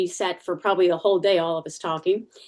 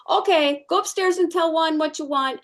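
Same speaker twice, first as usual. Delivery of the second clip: easygoing boss; 9 semitones higher than usual. Retold or imitated. Boss agreeing to big raise.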